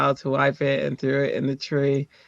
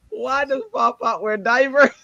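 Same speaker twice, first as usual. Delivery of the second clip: put-on higher-pitched little girl's question, laughter breaking in; imitated small child; 8 semitones higher than usual. Daughter asks about Pop Pop in underwear, imitated child voice. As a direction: ask it like a puzzled little kid.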